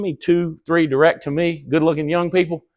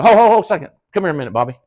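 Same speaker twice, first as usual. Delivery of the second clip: louder, higher playful stop call; mock interrupting call; 4 semitones higher, 4 dB louder, much faster than usual. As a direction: cut them off with a hearty call. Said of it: "I go".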